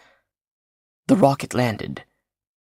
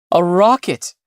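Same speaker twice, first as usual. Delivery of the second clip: rising, louder joyful shout of "A rocket"; excited cry; 7 semitones higher, 5 dB louder than usual. A narrator's reading. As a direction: call out "A rocket" in disbelieving joy. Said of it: "he cried".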